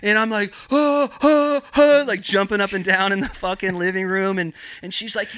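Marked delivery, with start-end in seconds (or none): 0.7-2.0 very high, louder breathless oh oh oh; excited squeals. Retold or imitated. Grower too thrilled to speak, high excited squeals. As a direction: squeal like you can't get the words out.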